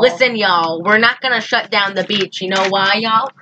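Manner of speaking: lightly put-on southern mayor; southern accent. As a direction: lean a little southern on every y'all. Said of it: "Why does everyone have a southern accent".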